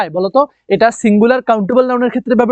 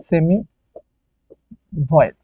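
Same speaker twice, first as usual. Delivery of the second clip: spelled out slowly; 5 semitones lower, 4 dB quieter, slower than usual. Shown as a demonstration. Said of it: "ওয়াইটাকে বলা হয় semi ভয়েল".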